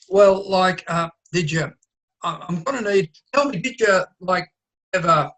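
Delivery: halting, stop-start fumbling; hesitant speaker. Acted. Overheard friend fumbling a question to Briggsy, hesitant and halting. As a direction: trip over every word, unsure where to go. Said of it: "It's someone being hesitant".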